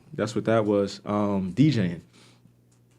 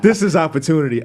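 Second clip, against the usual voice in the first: louder, proud and ready to go; announcing his big chance; excited declaration; 3 semitones higher, 6 dB louder than usual. Retold or imitated. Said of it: "I said".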